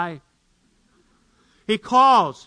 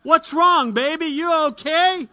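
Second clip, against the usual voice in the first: concerned; 9 semitones higher, 5 dB louder than usual. Acted. Husband asks crying wife.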